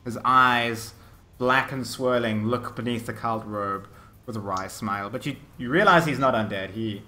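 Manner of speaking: measured storytelling with dramatic pauses; game master narration. Acted. Game master describes the necromancer and his army, suspenseful narration. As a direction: lay out the menace phrase by phrase.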